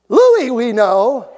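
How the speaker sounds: loud, stretched-out mock demon acknowledgement; playful proclamation. Preacher imagining demons naming him, playful loud proclamation. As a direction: call the name out high and slow. Puts his own wished-for name among apostles.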